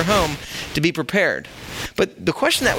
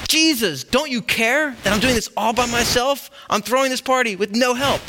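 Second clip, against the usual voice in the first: raised-pitch complaint, pleading and aggrieved; upset Martha; 6 semitones higher than usual. Acted. Martha interrupts the party to complain to Jesus, pitched-up and aggrieved. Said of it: "Martha comes in and says".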